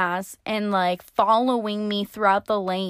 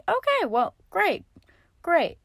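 sarcastic okay; 9 semitones higher than usual. Retold or imitated. Sarcastic reply to the clerk.

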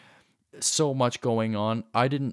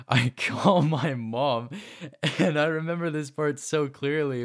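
laughing; 4 semitones higher than usual. Real, not acted. Laughs recalling the funny part.

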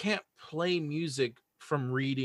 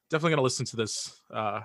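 normal talking voice

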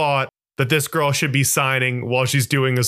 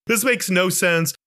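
normal talking voice

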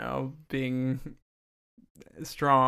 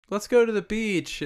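put-on high girly voice; 8 semitones higher than usual. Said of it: "And she's like".

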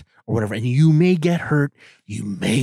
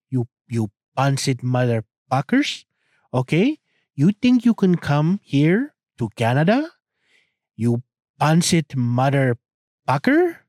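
mock rant.

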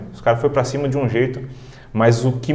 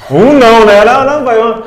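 pedido animado; 9 semitones higher, 9 dB louder than usual. Retold or imitated. Brincando com o pai sobre picolé.

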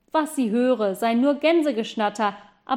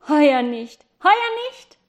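high, loud call; boy calling down to the girl, high and loud; 4 semitones higher, 6 dB louder than usual. Acted. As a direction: shout it down to her. Boy calls down to patients.

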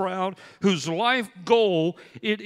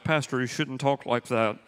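nurse scolding; 7 semitones lower than usual. Retold or imitated.

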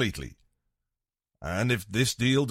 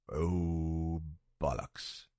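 deflated mutter; 9 semitones lower, 9 dB quieter, much slower than usual. Acted. Deal falls through, deflated curse.

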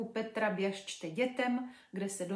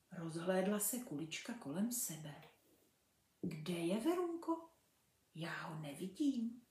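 put-on lively storybook reading for children; story narration; 4 dB louder than usual. A narrator's reading. Mother reading a fairy tale to kids, lively. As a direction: read it like a bedtime fairy tale.

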